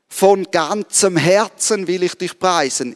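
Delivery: "von ganzem Herzen" leaned on, rest of the line lighter; emphasis on "von ganzem Herzen", not on "preisen"; stress on von ganzem Herzen. Shown as a demonstration. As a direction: put the weight on "ganzem Herzen". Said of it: "Die Betonung in diesem Satz liegt".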